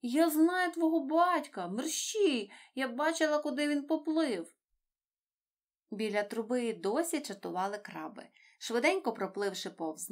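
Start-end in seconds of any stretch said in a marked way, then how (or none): 0.0-4.5 eager urging. A narrator's reading. Dori urging Nemo to hurry.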